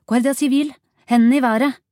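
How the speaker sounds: loud, high commanding yell; forceful shouted warning; shouted police order. A narrator's reading. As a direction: bellow it as an armed officer's challenge. Police challenge to the suspect.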